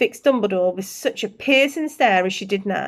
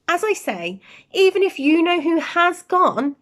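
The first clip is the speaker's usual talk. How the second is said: stern McGonagall; 3 semitones higher than usual. Acted. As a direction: scold him lightly, primly. McGonagall then Dumbledore voices.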